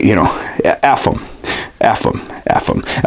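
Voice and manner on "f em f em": plain. Shown as a demonstration. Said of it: "F 'em".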